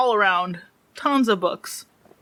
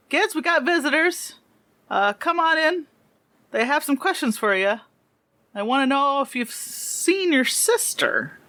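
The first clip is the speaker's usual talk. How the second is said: put-on dad addressing his kids; 6 semitones higher than usual. Game master voices dad addressing kids.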